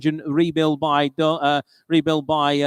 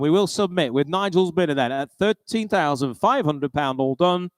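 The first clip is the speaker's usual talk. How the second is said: auctioneer counting the lot out. Acted. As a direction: bring the hammer down, firm and clear.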